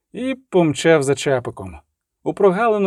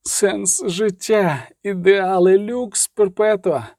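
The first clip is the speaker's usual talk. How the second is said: slow, halting, high cry of despair; sobbing; 4 semitones higher, much slower than usual. A narrator's reading. Reinevan on his knees weeping over his ideals, sobbing. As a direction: choke the words out through tears. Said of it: "плакав він, затинаючись".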